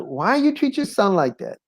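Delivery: imitating a scolding table neighbour; a light take on an indignant old lady.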